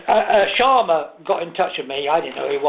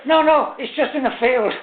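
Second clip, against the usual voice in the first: laughing through the words; 8 semitones higher than usual. Real, not acted. Lie, voice high with laughter.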